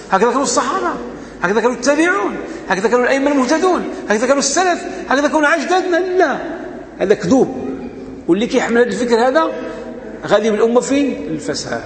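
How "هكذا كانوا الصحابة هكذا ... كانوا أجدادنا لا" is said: climbing higher with each question; preacher's mounting outrage, then a ringing no; rising rhetorical challenge. Real, not acted. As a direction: build the indignation question by question until the sharp no. Rhetorical questions building to denial.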